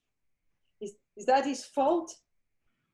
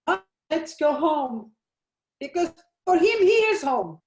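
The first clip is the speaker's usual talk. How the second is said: anguished demand; 4 dB louder than usual. Acted. Grieving mother demands answers.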